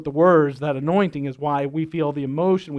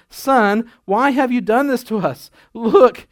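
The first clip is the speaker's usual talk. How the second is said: mild formal scolding mother; reading the mother's words a bit stiffly; 4 semitones higher, 4 dB louder, slower than usual. Shown as a demonstration. Pastor reads Mary's line to her son, mildly formal. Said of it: "I don't think it actually sounded like that".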